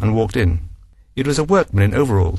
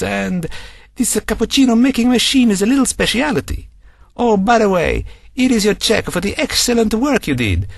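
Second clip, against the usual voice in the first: gushing apology from a pleased client; Frank Bacini, apologetic; 9 semitones higher than usual. Acted. Bacini apologising to Daisy, high and gushing.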